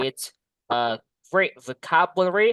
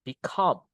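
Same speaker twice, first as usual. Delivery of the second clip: "Become" with a falling, weighted "come"; stress on second syllable; 2 semitones lower than usual. Shown as a demonstration. Teacher repeating the model word, stress on "come" in "Become". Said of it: "di suku kata yang kedua".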